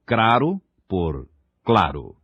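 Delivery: craro said slowly with R in place of L, then claro; faulty L as R. Shown as a demonstration. Teacher contrasting the faulty craro with claro. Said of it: "pronúncia defeituosa".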